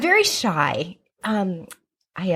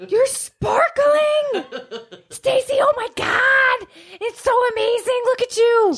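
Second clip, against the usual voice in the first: awestruck excitement; 12 semitones higher than usual. Acted. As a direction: gush over her like she's magic. Awestruck at glowing friend.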